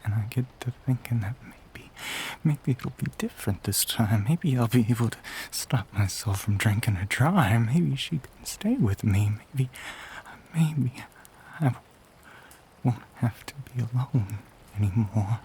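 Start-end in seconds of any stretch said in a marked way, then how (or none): 2.4-14.4 louder, swelling wishful plea; desperate hope. Acted. Monster confessing hunger to a stranger, desperately hopeful. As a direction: plead with yourself, voice lifting on key words.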